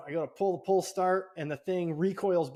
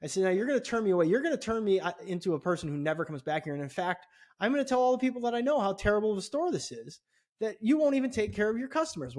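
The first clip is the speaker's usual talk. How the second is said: higher, heated customer threat; fuming threat; 4 semitones higher than usual. Retold or imitated. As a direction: lay it out, voice climbing in anger. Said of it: "So I was fuming".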